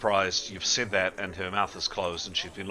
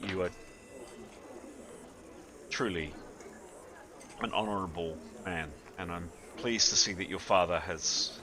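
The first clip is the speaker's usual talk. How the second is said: tender mother; 4 dB quieter than usual. Acted. Mother to her son Severin after a tear rolls, tender and soft. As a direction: speak gently through held-back tears. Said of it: "turns to Severin and says".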